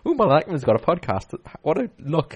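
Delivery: mock-excited dream reaction; retold excitement. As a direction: act out getting all excited over news. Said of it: "all getting excited going".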